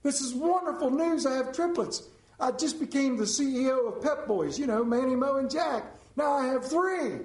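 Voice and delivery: overjoyed man announcing good news; joyful exclamation. Acted. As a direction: exclaim it in delight, acting out a joke. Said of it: "jumps up in joy, and he exclaims".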